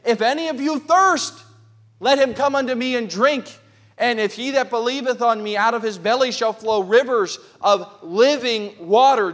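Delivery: preacher voicing Jesus crying out to the crowd. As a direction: call out the invitation across the temple. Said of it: "Jesus cried out and said".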